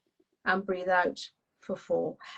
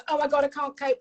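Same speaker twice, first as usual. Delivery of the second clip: mild mock panic, pitched up; panicking; 6 semitones higher, faster than usual. Child overwhelmed by panic, mock panicky. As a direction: act out a touch of panic. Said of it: "when you panic and you go".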